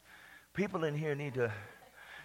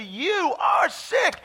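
mock body's scream; 7 semitones higher, much slower than usual. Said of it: "your body's screaming at you".

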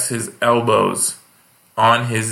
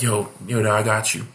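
rising hyped-up comic voice, climbing higher; eager feature comic; 3 semitones higher, much faster than usual. Retold or imitated. The feature comic offers to stretch, eager and rising. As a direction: hype it up like an overeager comic offering time. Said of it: "he goes up, he's like".

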